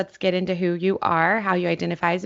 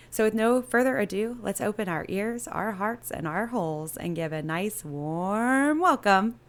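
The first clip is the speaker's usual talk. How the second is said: drawn-out announcer welcome, slowing right down at the end; show host announcer intro; slower than usual. Acted. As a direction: stretch the guest's name like a showman.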